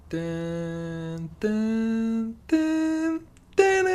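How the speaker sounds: dramatic dun dun, rising each time; building music hum. Shown as a demonstration. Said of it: "we gotta put that music to build us up".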